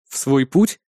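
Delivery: surprised. A narrator's reading. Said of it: "удивлённо переспросил я".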